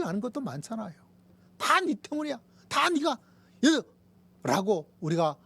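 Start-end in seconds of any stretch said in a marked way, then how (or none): 1.6-3.8 high-pitched mock outburst of blame; raised, resentful complaint; acted blaming. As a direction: act out pinning it all on someone. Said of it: "원망할 것도 많잖아요".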